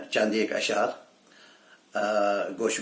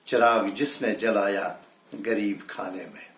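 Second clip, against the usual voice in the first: measured Urdu verse delivery; mushaira-style recital; poetry recitation; 3 dB louder than usual. Acted. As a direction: recite it as a ghazal line. Recites the second ghazal.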